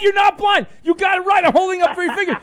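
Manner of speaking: host shouting that the caller is a fraud; furious shout. Real, not acted. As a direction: yell it like you caught a fraud. Host exposes caller's fake blindness.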